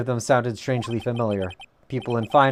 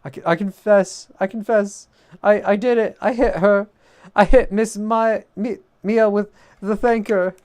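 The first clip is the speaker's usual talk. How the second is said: high, loud, panicky robot voice; 8 semitones higher, 4 dB louder than usual. Acted. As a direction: shriek like a malfunctioning robot. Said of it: "he does kinda sound like a robot the way I do it".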